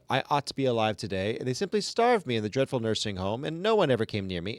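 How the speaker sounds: lightly voiced, run-on complaining chatter; grumbling ghost woman. Reading the ghost's endless complaint to the class, a mild put-on whine. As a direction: rattle it off like a self-pitying gossip, barely shifting your own voice. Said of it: "I'm going to try to do the voice".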